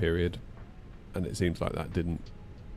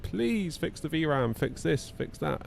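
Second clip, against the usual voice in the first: slow, higher whiny begging; pleading; 8 semitones higher, slower than usual. Retold or imitated. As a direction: plead with a list of demands. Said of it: "we're like".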